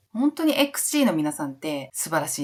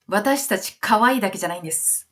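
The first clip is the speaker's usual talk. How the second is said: polite declaration; 3 semitones higher than usual. Retold or imitated. Voicing the group's polite declaration.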